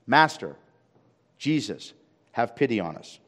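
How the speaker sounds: loud first word, then easing off; crying out. Acted. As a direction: call out to Jesus in separate, pleading bursts. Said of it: "crying out to Jesus in a loud voice".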